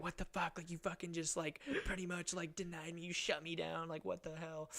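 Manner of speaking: softly mimicked indignation; offended girl, retold. Girl to the boy who didn't kiss her, mildly mimicked offence. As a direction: lightly act out her offence, kept soft. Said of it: "she gets all offended".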